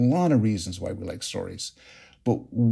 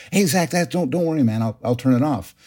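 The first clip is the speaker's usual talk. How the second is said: put-on higher, soothing reassurance to a frightened little boy; calm the scared kid down; retelling how he comforted his son; reassuring dad; 5 semitones higher than usual. Father soothing scared four-year-old son.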